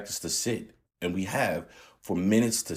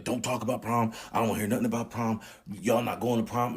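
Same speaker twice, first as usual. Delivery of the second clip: dad's warning; 4 semitones higher than usual. Retold or imitated. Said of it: "he would just be like".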